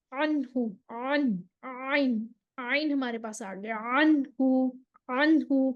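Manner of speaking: عنہ with a half-flowing ع, neither stopped nor running; floating ain. Shown as a demonstration. Teacher demonstrates the middle ain sound. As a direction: let the ع in عنہ float in between. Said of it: "floating سی sound آئے گی".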